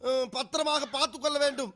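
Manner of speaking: measured, even recital of a written letter; reading a letter aloud. Acted. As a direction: read it out formally, phrase by phrase. (கடிதத்தை வாசிக்கும் தொனி)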